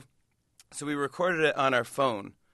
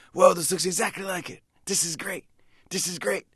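delighted; 6 semitones higher than usual. Retold or imitated. Bruce delighted at costume.

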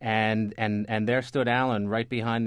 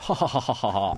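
put-on posh laugh; faster than usual. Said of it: "that little accent you put on, on the ha, ha, ha".

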